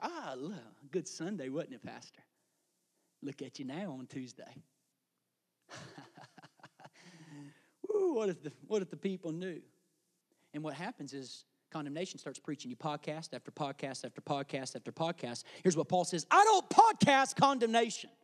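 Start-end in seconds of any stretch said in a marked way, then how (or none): 0.0-9.6 tiny, small, low voice like an inner voice. A pastor voices the condemning voice inside his head: small inner voice. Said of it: "That small voice comes into my head".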